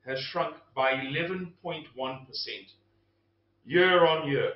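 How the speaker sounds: talking while crunching ice; words around a mouthful of ice. Real, not acted. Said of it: "I'm gonna crunch this ice".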